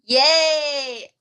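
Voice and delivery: loud, high drawn-out yay; cheering. Real, not acted. Host cheers the next act on.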